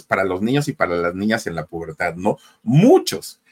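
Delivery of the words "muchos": put-on cracking up high like a teen's breaking voice. Shown as a demonstration. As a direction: let the voice squeak into a crack. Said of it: "la voz del gallo Claudio".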